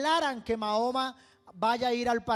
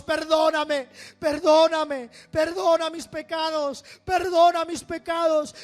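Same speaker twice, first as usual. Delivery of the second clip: louder, higher, desperate cries for forgiveness; screamed plea; 7 semitones higher, 9 dB louder than usual. Retold or imitated. Man in his cell screaming to God for pardon. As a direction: beg at full voice, pleading. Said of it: "le gritaba al Señor".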